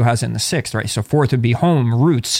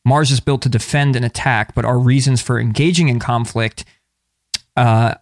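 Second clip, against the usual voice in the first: even, measured book-excerpt read; reading aloud. Acted. Podcast host reading an astrology book excerpt, reading aloud. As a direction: read it out from the page.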